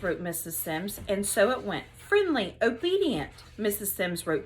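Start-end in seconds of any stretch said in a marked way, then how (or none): 2.0-3.3 called-out answers. Acted. Kids shouting answers.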